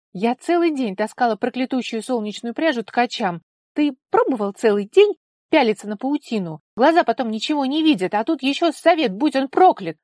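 indignant outburst. A narrator's reading. Daughter ranting at her father about her work, high and loud. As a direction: vent all the day's fury.

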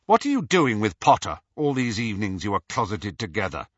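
quick, blunt question; abrupt. Acted. Snape suddenly questioning Dumbledore, fast and abrupt. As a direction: fire it off without warning. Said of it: "Snape asked abruptly".

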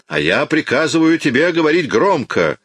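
police inspector roaring a command; angry order. A narrator's reading. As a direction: slam the order down on him. Javert orders him aloud.

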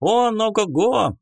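high squeaky fairy voice; a tiny excited fairy bragging; squeaky pixie. Acted. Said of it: "писклявый голос феи". (писклявый голос феи)

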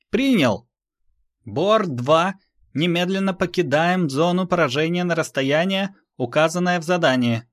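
clipped radio call from the cockpit; pilot voice. Acted.

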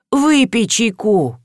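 drawn-out, gentle plea; slow imploring invitation; pleading. Acted. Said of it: "взмолилась хозяйка".

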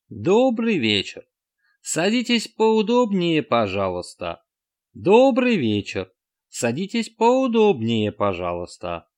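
high, slow, looping robot greeting; skipping record. A narrator's reading. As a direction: repeat it like a stuck record. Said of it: "проигрывали заезженную пластинку".

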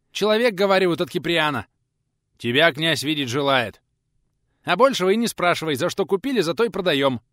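high, loud, hurried explanation; impatient shout. Acted. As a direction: shout it over the running. Lads shout hurried news.

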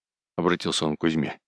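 ordinary delivery

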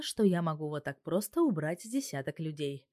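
ordinary delivery, nothing marked

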